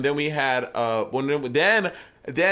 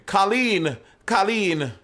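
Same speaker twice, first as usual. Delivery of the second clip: calling out; 6 semitones higher, much slower than usual. Pretend. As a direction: call her name across the street. Calling the name West Indian.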